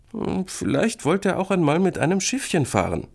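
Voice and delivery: high, musing explanation; reassuring. A narrator's reading. Sister tries to calm little brother, reassuring. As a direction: offer a comforting guess, pitched high. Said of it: "ihren kleinen Bruder zu beruhigen".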